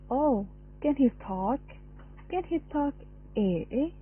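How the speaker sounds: lightly voiced sing-song baby talk, with pitch jumping up on some words; mother cooing to her adult son, in mild sing-song baby talk. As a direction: coo at the grown son as if he were a baby. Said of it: "Uttered with high pitch and a sing-song intonation".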